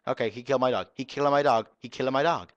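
loud, high indignant shouting; outraged yelling. Real, not acted. Gamer yelling at the screen that his dog got killed, loud and high. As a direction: yell it in disbelief at the screen.

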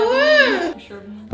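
loud, high triumphant cheer; excited shout. Real, not acted. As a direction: crow about winning. Wins candy challenge.

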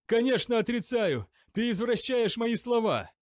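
high, loud outraged protest; furious denial. A narrator's reading. Zachariel protests to Midris, outraged. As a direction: fire it back, outraged. Prisoner denies angrily.

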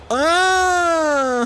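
high, drawn-out sigh of relief; long high "ah". Real, not acted. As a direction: let out a high falling "aah". Reacts to health going up.

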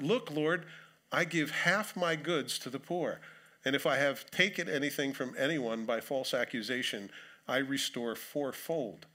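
solemn public reading of scripture. Acted. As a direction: read the passage out with weight. Reads scripture aloud.

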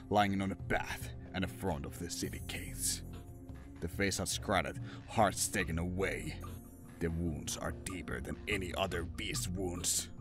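usual speaking voice

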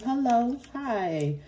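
mock sweet greeting. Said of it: "Tell these motherfuckers".

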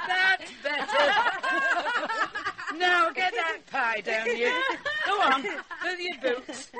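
loud, high, slow words through laughter; laughing. Acted. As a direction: call out over your own laughter. Gran laughing along at the table.

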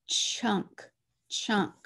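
whispered "Chunk, chunk", falling; whispered sounding out. Shown as a demonstration. Teacher whispering "chunk" while the child writes. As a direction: say "chunk" under your breath. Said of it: "sounding out".

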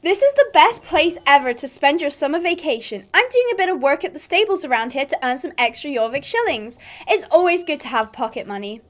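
lightly put-on American accent. Stable girl talking up the summer camp, light American accent. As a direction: welcome them in a hint of an American accent.

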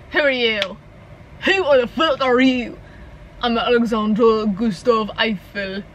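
slow, hammed-up French accent; bad French accent. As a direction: fumble through a joke French accent. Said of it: "used to be able to do a French accent".

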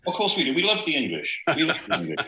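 high, overdone declaration of love; mock gushing. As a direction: ham up the affection with a wink. Joking Welsh answer about English.

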